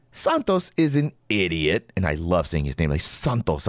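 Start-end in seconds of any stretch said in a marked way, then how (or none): 0.1-1.9 "Santos" said with Spanish vowels, "Sahn-tos", nasal a; "Santos" with a Spanish-style open a; mock Spanish accent. Shown as a demonstration. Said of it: "give it that Spanish accent". 3.0-3.7 mock Spanish accent. Shown as a demonstration. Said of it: "give it that Spanish accent".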